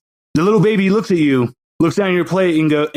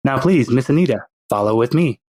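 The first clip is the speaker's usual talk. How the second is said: put-on baby villain; 3 semitones lower than usual. Baby with a pacifier courts Anita, in a lower sinister voice. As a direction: play the baby as a smug little schemer.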